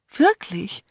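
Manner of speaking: high, loud eager question; excited. Acted. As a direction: perk up, thrilled. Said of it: "sah ganz aufgeregt aus".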